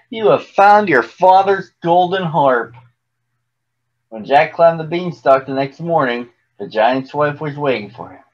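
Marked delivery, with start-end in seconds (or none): 0.1-2.8 high-pitched, joyful wonder; happy mother. A narrator's reading. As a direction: say it high, overjoyed for your son. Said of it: "she said happily".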